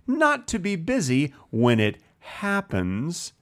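slow eighties commercial narrator read; commercial narration. Shown as a demonstration. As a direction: read it like an old TV ad. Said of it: "a very good, like, commercial narration reading of, of that comment".

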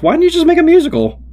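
high-pitched, incredulous complaint; exasperated high voice. Retold or imitated. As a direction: squeal it out in disbelief. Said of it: "thinking to myself".

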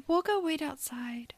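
hushed, breathy aside; whispering. Retold or imitated. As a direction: whisper it to slip away. Other mom tiptoes away.

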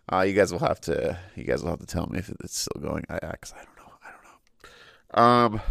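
stuffy blocked nose from allergies. Real, not acted. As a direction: talk through a blocked nose. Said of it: "sorry for my, my nose".

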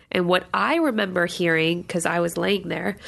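blocked nose, stuffed up; talking through a stuffed-up nose; stuffy nose. Real, not acted. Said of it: "I'm so stuffed up".

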